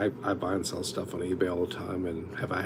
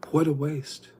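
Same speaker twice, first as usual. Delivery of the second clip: higher and louder exclamation; exclaimed; 7 semitones higher, 4 dB louder, slower than usual. Retold or imitated. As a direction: call it out in disbelief. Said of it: "I'm like".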